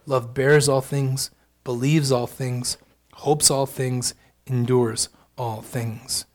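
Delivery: solemn Bible reading; scripture reading. Acted.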